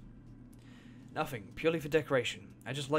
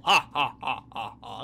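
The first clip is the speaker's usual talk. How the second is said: a burst of real laughter, first peal loud; laughing at the screen; 2 semitones lower, 8 dB louder, slower than usual. Real, not acted. Viewer laughing at a character's goofy face, real laughter.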